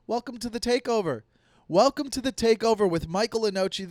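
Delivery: too much caffeine. Acted. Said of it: "I'm still gonna do the coffee's kicking in".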